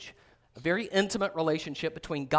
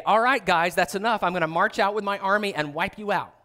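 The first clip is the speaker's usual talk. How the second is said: louder, stern commanding call; stern warning; 3 semitones higher, 6 dB louder than usual. Acted. God as he does not speak to the rebels, louder and stern. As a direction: lay down the law to troublemakers.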